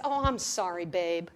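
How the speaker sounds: quick, low, throwaway "I'm sorry, babe"; offhand apology. Retold or imitated. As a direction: toss off "I'm sorry, babe" like it costs nothing. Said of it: "than just".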